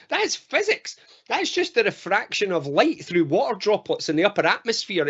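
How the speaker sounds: high, scoffing disbelief; incredulous dismissal. Acted. Sceptic answering the believer about the rainbow, incredulous and dismissive. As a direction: correct them with mock disbelief. Same sceptic resumes explaining.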